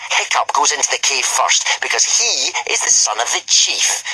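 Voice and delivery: a lightly voiced bully's sneer; mock the chief's son with a sneer. A narrator's reading. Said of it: "he sneered".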